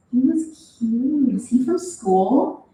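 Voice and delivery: slow, drawn-out teasing sing-song. Acted. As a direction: lilt it like a playful tease. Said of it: "continued in a sing-song voice".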